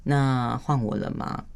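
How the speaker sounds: slow, even, patient; calm asking. Shown as a demonstration. Wife showing how she calmly asks her husband for her turn, slow and even. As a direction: ask gently for your turn, no pressure. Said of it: "我会说".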